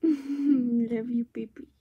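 tender. Real, not acted. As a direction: murmur it lovingly, barely voiced. Tender words to baby.

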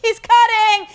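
high, loud accusing shout; re-enacted outraged yell; retold yelling. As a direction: call out a line-cutter to the whole queue. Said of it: "I yelled at him at the top of my lungs".

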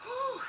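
high puffed exhale with a laugh; winded whew. Real, not acted. Crafter still recovering from the stairs, breathless whew. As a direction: blow out air, still recovering. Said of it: "I'm that out of breath".

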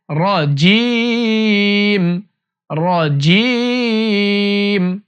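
রজিম with a thick, heavy র, drawn out very slowly. Shown as a demonstration. Teacher modelling heavy র in রজিম very slowly. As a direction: hold রজিম long with a full র. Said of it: "রটা আবার মোটা হয়ে যাবে".

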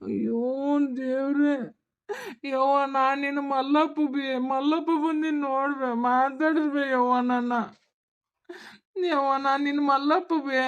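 tearful pleading, voice close to breaking; crying. Acted. Son crying, begging his mother to recognize him, tearful. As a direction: beg through tears for her to look at you. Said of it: "ಅವ್ವ ಅಂತ ಅಳಕತ್ತಿಯಲ್ಲೇ ಯಪ್ಪ".

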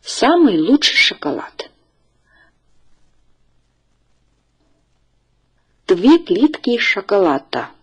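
careful teacher's model reading, phrase by phrase; read-after-me model. Shown as a demonstration. Teacher asks the class to read after her, clear model reading. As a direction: read out each phrase clearly for learners to repeat. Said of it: "请大家跟我读".

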